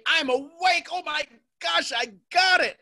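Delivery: high-pitched mock epiphany; imitated awakening excitement. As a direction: squeal it like an over-thrilled student. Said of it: "you're telling me".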